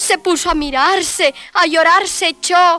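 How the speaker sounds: contado con ritmo de cuento para niños; léelo como un cuento rimado para un niño; narración de cuento infantil. A narrator's reading. (narración de cuento para niños)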